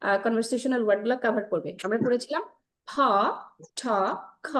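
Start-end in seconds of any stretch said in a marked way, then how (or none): 2.9-4.5 "ফ", "ঠ", "খ" with a puff of air; isolated breath-puffed "ফ", "ঠ", "খ"; aspirated sounds. Shown as a demonstration. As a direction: model "ফ", "ঠ", "খ" separately. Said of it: "আমরা ফটোকো সাউন্ড নিয়ে".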